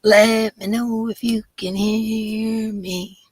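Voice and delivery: mock-operatic mic check; silly high voice. Shown as a demonstration. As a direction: belt it out in a goofy high tone. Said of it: "with my horrible voice".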